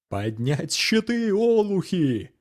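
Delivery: high, slow barked command; shouted order. Acted. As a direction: bark the order over battle. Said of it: "крикнул Асаф". (громкий командный окрик)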